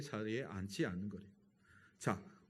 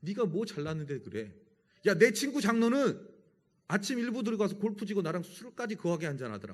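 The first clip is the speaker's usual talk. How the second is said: loud, high mocking jeer. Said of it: "막 그러면서 조롱했대요".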